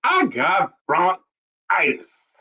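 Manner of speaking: slow, drawn-out mimicry; imitating viral interview lady. Repeating the favourite lady's line for laughs, slow imitation. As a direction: stretch each word like the viral lady. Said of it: "I love that lady".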